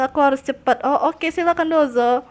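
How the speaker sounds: ordinary talk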